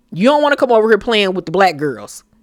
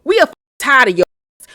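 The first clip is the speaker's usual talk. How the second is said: rising into a yelled shut the fuck up; retold angry outburst; 3 semitones higher, faster than usual. Evelyn yelling at Denise to stop interrupting, heated. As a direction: mimic Evelyn snapping at Denise. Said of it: "Evelyn ... was like".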